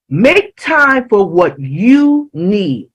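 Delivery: slow line with YOU drawn out; deliberate, emphatic "you"; stress on YOU. Real, not acted. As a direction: lean on the word "you", taking your time. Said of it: "I emphasize the word you".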